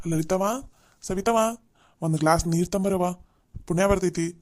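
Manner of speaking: loud call across the house for water. Acted. Old man calling out loud for a glass of water. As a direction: call out to the daughters-in-law from the doorway.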